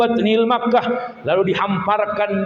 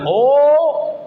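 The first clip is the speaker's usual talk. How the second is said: "Oh" lifted higher and louder in wonder; a bright, wondering "Oh" with lips turned down; amazed oh; 6 semitones higher, 4 dB louder than usual. Shown as a demonstration. Preacher showing the congregation an amazed oh, higher and louder. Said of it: "Tapi kalau bibirnya ke bawah, itu takjub".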